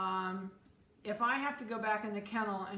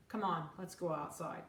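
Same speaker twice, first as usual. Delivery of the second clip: a touch softer, even and unexcited; calm; 2 semitones lower, 3 dB quieter than usual. Shown as a demonstration. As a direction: speak to the puppy calmly, no fuss. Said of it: "walk over to the crate calmly and say".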